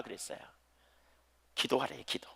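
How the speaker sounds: hushed whisper for emphasis. Acted. Preacher whispering to the congregation to pray. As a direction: drop to a breathy secret. Sudden whisper after loud verse.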